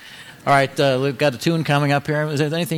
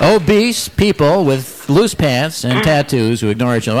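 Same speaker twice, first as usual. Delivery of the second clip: mock outrage; 4 dB louder, slower than usual.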